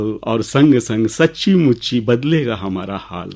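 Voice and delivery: measured, lilting recital with pauses; poem recitation. Acted. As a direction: recite verse to an audience, leaning on key words. Recites his own poem.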